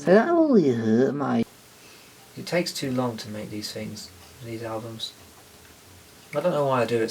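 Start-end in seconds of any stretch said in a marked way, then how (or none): 0.0-1.5 hammed-up Aussie accent, a touch higher; Australian accent. Shown as a demonstration.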